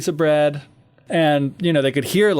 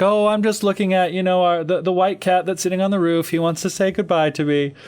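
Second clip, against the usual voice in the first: innocent Hansel; 5 semitones higher than usual. Retold or imitated. Hansel voiced in retold story.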